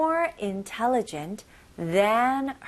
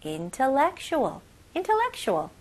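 faster; 4 semitones higher, much slower than usual. Shown as a demonstration. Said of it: "좀 더 빨리".

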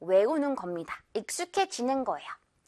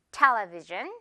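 "television" with strong TEL and a rise at the end; first-syllable stress; 3 semitones lower, much slower than usual. Shown as a demonstration. Teacher repeats correct television, first-syllable stress. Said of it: "맨 앞부분 강세 주세요".

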